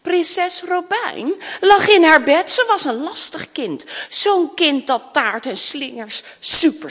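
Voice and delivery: lively, rhythmic storybook reading; children's story narration. A narrator's reading. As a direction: read the rhyme to young children. Reads a rhyming children's story. (levendig voorlezen aan kinderen)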